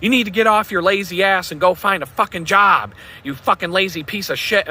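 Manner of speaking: retold angry yell at her boyfriend; imitated screaming. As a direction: act out the ex-girlfriend yelling at him. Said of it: "she's screaming at the top of her lungs".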